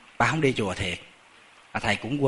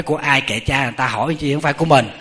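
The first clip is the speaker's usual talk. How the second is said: louder, brusque brush-off; acted-out cranky temple cook, louder; irritated retort; 5 dB louder than usual. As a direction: snap back as if told off for asking. Acted cook snapping at hungry monks.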